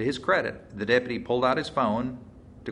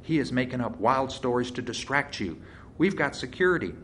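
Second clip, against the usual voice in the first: building from annoyed to higher-pitched indignation; rising anger; 5 semitones higher than usual. A narrator's reading. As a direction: voice climbs higher as her anger grows. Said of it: "her voice rising in anger".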